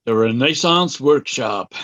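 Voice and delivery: slow, drawn-out announcer read of the name; voiceover announcer. Pretend. Kit announcing the workshop name like a voiceover, slow announcer read. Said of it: "You need a nice American voiceover".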